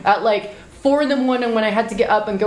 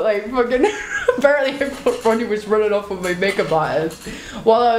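laughing. Real, not acted. Laughing at jealousy story.

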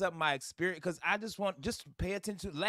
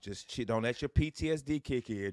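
self-calming mantra; 6 semitones lower than usual. Retold or imitated. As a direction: breathe yourself calm. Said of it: "this is what I'm saying".

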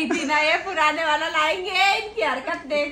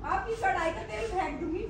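half-laughing threat; 3 semitones higher, 4 dB quieter, faster than usual. Real, not acted. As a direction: laugh through the words.

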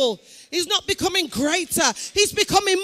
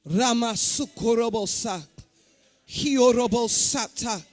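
speaking in tongues; 6 semitones lower than usual. Real, not acted. Preacher prays in tongues over the congregation.

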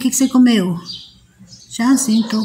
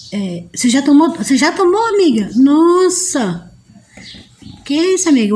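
excited; 3 semitones higher than usual. Real, not acted. Excited reaction to a viewer.

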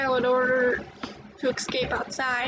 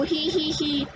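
doll giggle; slower than usual. Acted. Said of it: "the Laughing Doll".

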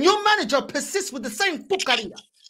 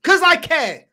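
loud declaration; 6 dB louder than usual. Real, not acted. Heated closing retort.

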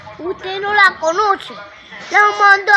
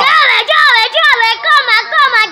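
shouted vendor call; 4 semitones higher than usual. Acted. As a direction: hawk it at full voice. Loud vendor calls.

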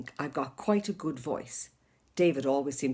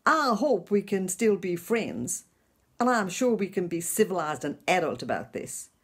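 imitating the ex; 3 semitones higher than usual. Retelling the ex's break-up speech, imitating him. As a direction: imitate an ex being oh so civilised. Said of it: "He said".

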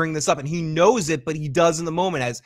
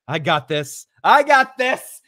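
second I got this jumps higher and louder; annoyed but loving; 3 semitones higher, 6 dB louder than usual. Retold or imitated. Chrissy handling her friend's scene, annoyed and fond. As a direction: reassure the room while clearly fed up. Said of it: "simultaneously angry, annoyed, with love and frustration".

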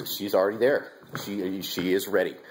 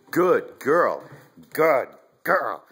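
high, loud praise; dog praise; 5 semitones higher, 5 dB louder, much slower than usual. Real, not acted. Owner praising puppy Hunter after the retrieve, high and loud. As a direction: praise the puppy warmly and loudly.

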